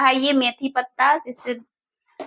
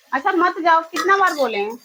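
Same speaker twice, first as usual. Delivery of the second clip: raised, higher-pitched nagging; exasperated scolding; 5 semitones higher, 3 dB louder than usual. Real, not acted. Mother tired of repeating herself to her child, exasperated.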